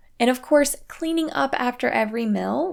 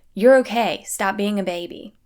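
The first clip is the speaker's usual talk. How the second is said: harsh tone; 5 dB louder than usual. Retold or imitated. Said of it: "say it with a more harsh tone".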